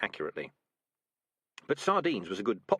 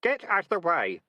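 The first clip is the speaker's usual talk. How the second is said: louder, higher shout; 7 semitones higher, 5 dB louder than usual. A narrator's reading. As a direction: yell at them to move. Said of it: "shouted Keith".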